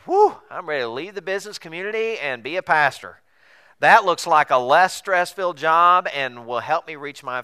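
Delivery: loud, high, hammed-up enthusiasm; exaggerated relief and excitement; mock eagerness. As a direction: play the eager career-changer, big and loud. Mocking an eager would-be pastor.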